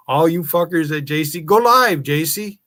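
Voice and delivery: yelled, high and loud callout; angry shout. Real, not acted. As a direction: bark it at the whole channel. Calling out streamers to go live.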